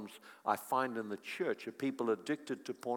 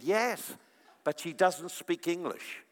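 lightly voiced daughter; 4 semitones higher, slower than usual.

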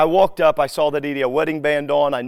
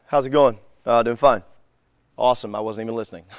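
uncaring exchange; 5 semitones lower, faster than usual. Acted. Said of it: "people do not even care about the response".

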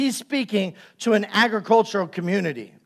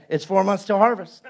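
mock saying. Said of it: "and say".

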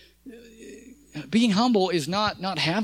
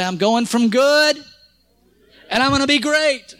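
say it loud; 5 semitones higher, 4 dB louder than usual. Shown as a demonstration. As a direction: proclaim it loudly. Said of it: "say it loud".

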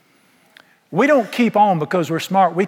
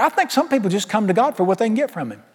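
a touch of aggravated preacher; mad; 5 semitones higher than usual. Retold or imitated. Annoyed preacher repeating himself when asked, mildly mad. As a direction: repeat it higher, with an edge of irritation. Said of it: "and he was mad about it".

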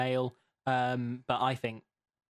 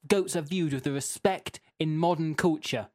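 indignant, raised-pitch all-caps read; mildly shouty reading; 3 semitones higher than usual. Acted. Host reading an all-caps listener comment, mildly shouty. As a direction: read out an outraged complaint, emphatic and a bit raised. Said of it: "I'll try not to shout, but I might have to".

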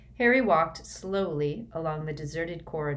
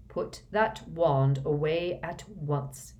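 slow, curt order; slower than usual. Acted. Snape orders Harry to drop his wand, slow and curt. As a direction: clip out the command coldly, slowly. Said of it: "he said curtly".

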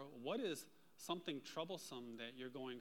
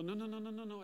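higher, mildly alarmed string of warnings; retold alarm; 6 semitones higher, faster than usual. Warning companion away from a baby bear, mildly alarmed. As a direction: re-enact stopping someone in a hurry. Urgently stopping companion near cub.

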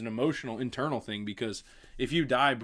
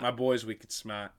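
slow Boston accent, R dropped in smart; 4 semitones lower, 3 dB quieter than usual. Shown as a demonstration. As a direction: repeat it as a Boston catchphrase. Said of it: "how to do a Boston accent".

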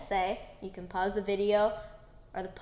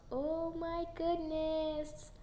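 gushing; 6 semitones higher, 6 dB quieter, much slower than usual. Real, not acted. Gushing about French bulldogs.

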